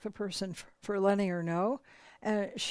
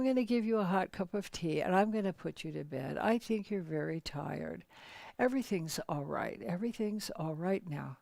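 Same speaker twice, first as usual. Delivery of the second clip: soothing; 2 semitones lower, 4 dB quieter than usual. Retold or imitated. Husband soothing distraught wife.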